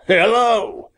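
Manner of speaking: high, bright exclamation of surprise; surprised hello. A narrator's reading. Hunter surprised to see the boy holding his bird. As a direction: caught off guard, call out. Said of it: "exclaimed the hunter in surprise".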